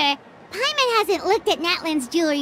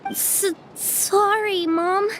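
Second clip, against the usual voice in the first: timid apology; much slower than usual. Acted. Scolded child apologizes to mother.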